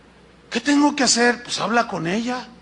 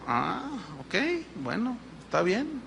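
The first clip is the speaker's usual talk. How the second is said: grudging agreement; 10 dB quieter than usual. Retold or imitated. Believers pretend to accept God's will, grudging resigned mumble. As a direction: give in without meaning it. Mock reluctant agreement with God.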